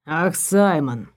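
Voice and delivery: slow, low sneer at the name. Acted. Elvin to the girl, mocking her date, in a slow low sneer. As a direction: drawl the name out with contempt.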